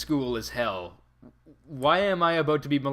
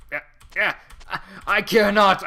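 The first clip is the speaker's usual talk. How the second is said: dismissive; 5 semitones higher, 7 dB louder than usual. Acted. Voicing character dismissively.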